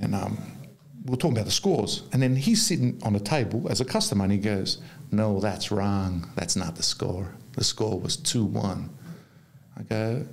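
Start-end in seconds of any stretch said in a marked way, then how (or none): 5.1-8.9 the American's voice. Retold or imitated. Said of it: "That's how he talks".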